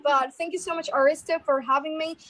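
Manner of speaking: American-accented thanks; American English, addressed to hosts. Shown as a demonstration.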